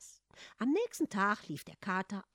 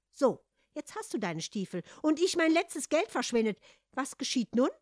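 higher, louder disgruntled complaint; grumbling; 6 semitones higher, 6 dB louder than usual. A narrator's reading. Hans on the way home, broke, grumbling. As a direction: grumble reproachfully at the cat. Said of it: "murrte Hans".

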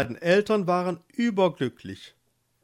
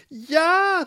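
high, louder eager yes; eager wife; 7 dB louder than usual. Acted. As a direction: blurt it out, desperate. Marleen calls out.

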